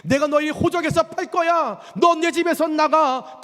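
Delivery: an angry father disowning a rebellious son, harsh; harsh stern God. Retold or imitated. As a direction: throw them out of the house, hard and loud. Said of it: "그렇게 모질게 말씀하셨는데".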